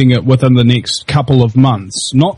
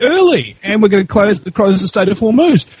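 defiant retort; 6 semitones higher than usual. Acted. Voicing Iran's defiant reply.

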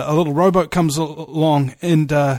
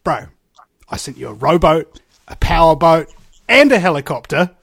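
annoyed; 3 dB louder than usual. Retold or imitated. God answers drowned man at pearly gates, annoyed. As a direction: build up, mildly fed up, to the punchline. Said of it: "kind of annoyed like".

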